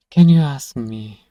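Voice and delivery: a sudden loud burst of indignation; indignant outburst. Real, not acted. Outburst at old friend's request.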